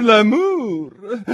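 "l'amour" drawn out high, lilting upward; rising l'amour. A narrator's reading. Duchess repeats "l'amour", lilting up. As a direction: let "l'amour" lift like a question of delight.

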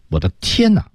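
我的天哪 with each word clear, pitched high; high, emphatic 我的天哪, no syllable skimmed; every word stressed. Shown as a demonstration. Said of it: "都属于每个字都是关键词".

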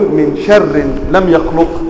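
slow من شر لم يخلق, شر drawn out; تلاوة بطيئة للقراءة الخاطئة; wrong reading demo. Shown as a demonstration. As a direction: spell out من شر لم يخلق slowly, each word apart. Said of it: "كأنه يقول".

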